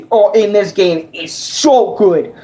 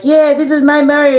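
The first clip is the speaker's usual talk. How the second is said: Mario voice; 5 semitones higher than usual. Retold or imitated. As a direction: announce yourself like Mario. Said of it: "my Mario was like".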